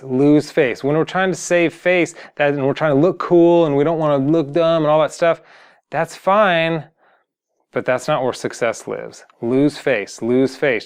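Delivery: usual speaking voice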